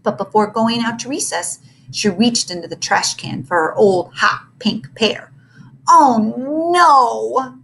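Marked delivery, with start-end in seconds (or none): 5.9-7.6 loud, high mock wail; girl wailing over her lost mittens. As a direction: wail in childish dismay. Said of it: "she wailed".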